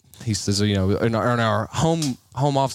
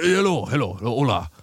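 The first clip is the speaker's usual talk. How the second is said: put-on Indian-Hispanic phone greeting; mixed Hispanic accent; faster than usual. Switching back for the scammer, mixed Hispanic accent. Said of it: "I switched it back".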